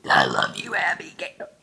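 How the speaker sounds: low belch into a breathy fade; burped words. Shown as a demonstration. Take two for her dog, burped. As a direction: belch it with affection. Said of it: "Take two".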